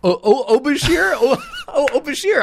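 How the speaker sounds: high, swooning sighs of his name; lovestruck swoon. Pretend. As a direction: sigh his name like a smitten fan. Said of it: "You were about to say, "Oh, Bashir".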